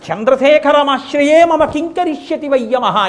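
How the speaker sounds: fervent proclamation. Acted. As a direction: proclaim it with conviction. Preacher repeats defiant verse. (భక్తితో, గట్టిగా ప్రకటన)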